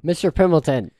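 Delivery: high, loud call down a hall; yelling from hallway. Acted. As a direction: shout for the butler from afar. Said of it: "I'm, like, yelling from the hallway".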